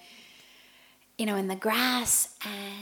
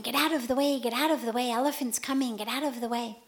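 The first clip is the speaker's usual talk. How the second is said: retold shout; 3 semitones higher, faster than usual. Elephant handler warning the crowd, raised shout. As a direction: call out like a handler waving people off. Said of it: "is shouting".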